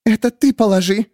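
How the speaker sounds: high defiant no; Miriam refusing. A narrator's reading. Miriam refusing the narrator, high defiant. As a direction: refuse flatly. Miriam demands, gun raised.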